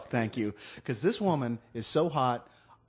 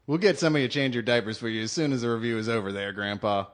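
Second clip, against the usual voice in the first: faster retake; 5 semitones lower, faster than usual. Shown as a demonstration. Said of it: "One more time".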